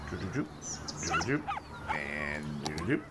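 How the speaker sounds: little sung doo-doo-doo, flicking up at the end; soft, low doo-doos with a rising tip; idle doo-doo sounds. Real, not acted. Gamer filling time while clicking, idle doo-doo sounds.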